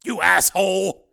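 slow, scornful put-down; withering. A narrator's reading. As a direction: cut him down with contempt. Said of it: "said witheringly".

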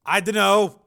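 high, loud, gasping pain; wounded man in pain. Acted. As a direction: cry out through the agony.

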